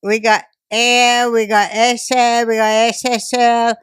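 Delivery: slow, high mock Asian accent; exaggerated Asian shopkeeper voice. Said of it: "I'm gonna do my Asian accent now".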